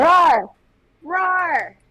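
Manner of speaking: playful roar. Pretend.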